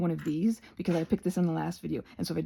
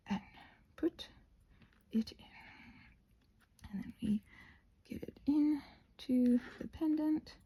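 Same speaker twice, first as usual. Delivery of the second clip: soft, careful whisper; concentrated whisper; 5 semitones higher, 5 dB quieter than usual. Real, not acted. Crafter whispering while pressing a fragile wing. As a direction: whisper as if the wing might break. Delicate placing of wing piece.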